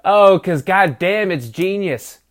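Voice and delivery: loud, high, drawn-out Southern belle. Acted. Fan marveling at the analyst's genius, mock Southern belle. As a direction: exclaim like an over-the-top Southern belle. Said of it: "the deal with the Southern Belle".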